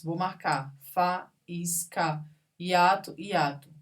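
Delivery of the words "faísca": "Faísca" as fa-ís-ca; syllable by syllable. Shown as a demonstration. Teacher marking a hiatus, syllable by syllable. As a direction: pause between each syllable of "Faísca". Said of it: "Se separam".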